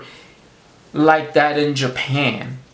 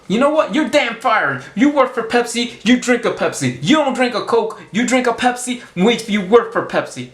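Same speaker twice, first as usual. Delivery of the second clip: raised, scolding boss voice; hammed-up boss firing the worker; mock angry boss; 5 semitones higher than usual. Boss catches his Pepsi driver with a Coke, mock angry. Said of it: "this guy boss says".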